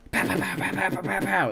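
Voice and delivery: high, rapid nonsense syllables; a cafe owner barking orders in mock Turkish. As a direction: spit out fake Turkish, hammed up. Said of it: "spits something out in rapid-fire Turkish".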